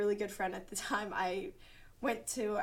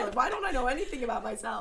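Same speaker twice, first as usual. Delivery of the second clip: laughing; 3 semitones higher, 6 dB louder, faster than usual. Retold or imitated. Joining friend's joke with laughter.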